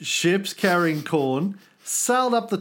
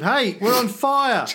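mock yell; 4 semitones higher than usual. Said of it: "yelled out to the second ship".

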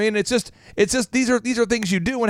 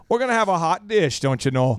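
put-on Minnesotan accent. Minnesotan announcing tonight's dinner, light mock accent. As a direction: answer as a folksy Minnesotan. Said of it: "so people would say".

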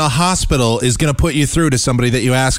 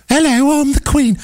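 very high mock-regal voice; hammed-up, badly faked British Queen; bad Queen impression. Host mocking the prank caller's Queen, high silly voice. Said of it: "the Queen doesn't sound like that".

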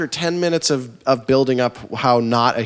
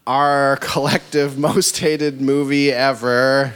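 announcer voice; much slower than usual. Shown as a demonstration. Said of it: "I have to do that for Braden".

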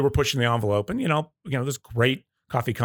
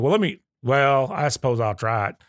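put-on Southern accent; 3 semitones higher than usual. Customer reluctantly agreeing to try the coffee, light Southern accent. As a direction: imitate a hesitant customer with a touch of Southern. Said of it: "Did you just do a Southern accent".

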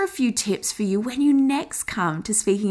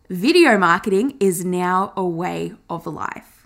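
lower, grounded natural voice; 4 semitones lower than usual. Shown as a demonstration. Coach demoing her natural lower speaking tone. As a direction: settle into your own lower voice. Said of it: "gone back to really my natural speaking voice, which has a lower tone".

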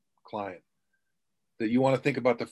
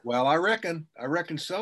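Southern drawl; 5 semitones higher than usual. Pretend. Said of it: "with an accent like that, you're gonna fit right in".

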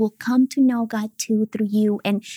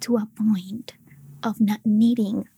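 voice of God. Retold or imitated. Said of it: "He said".

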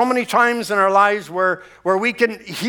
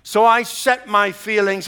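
normal talking voice

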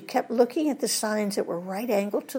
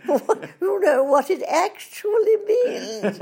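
words bubbling over with laughter, climbing higher; laughing while telling; 5 semitones higher, 4 dB louder than usual. Real, not acted. To the host about the British manager, laughing harder and higher. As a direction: laugh your way up to the punchline.

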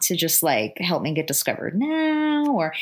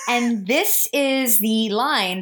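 whisper; 5 semitones higher, much slower than usual. Real, not acted. Whispered build-up to fun fact.

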